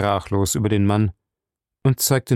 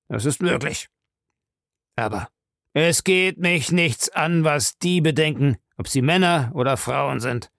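put-on raised, forceful older man's voice; old man's curt account; 5 semitones higher, 3 dB louder than usual. Old man tells a woman about stolen letters, firm and raised. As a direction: lay out the facts firmly.

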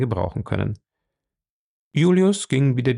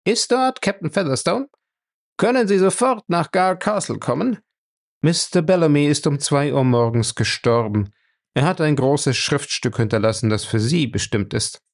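voice on the phone; 5 semitones higher than usual. Acted. Overheard phone call upstairs.

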